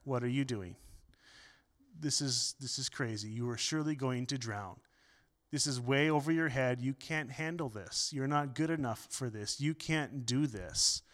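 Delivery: soft, hushed voice of doubt; doubting inner voice. Retold or imitated. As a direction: murmur the fears like a voice in your head. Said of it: "that little voice in the back of our mind starts to talk".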